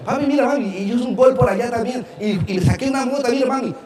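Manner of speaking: put-on high, excited little-kid voice; eager child. Boy running home to tell parents about his goal, high and eager. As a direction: bounce up in pitch like a boy bursting with news.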